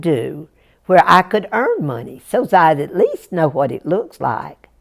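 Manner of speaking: lightly voiced earnest country boy; Jack, polite mountain boy. Jack turning down his brothers, earnest and polite. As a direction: bid them well, politely, with a lift at the end.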